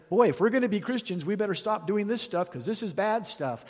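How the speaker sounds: lightly voiced self-righteous believer; mock pious resolve. Preacher mocks imagined Christians' resolve.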